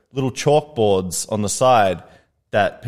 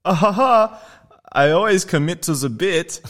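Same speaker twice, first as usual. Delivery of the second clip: forced laugh; 8 semitones higher than usual. Retold or imitated. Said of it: "I was like".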